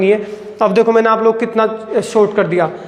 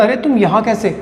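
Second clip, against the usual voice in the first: surprised exclamation. Shown as a demonstration. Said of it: "ऐसे बोलते हैं".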